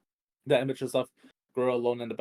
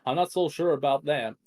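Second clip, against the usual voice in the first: sarcastic; 3 semitones higher, 6 dB louder than usual. Acted. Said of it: "the sarcasm evident in his voice".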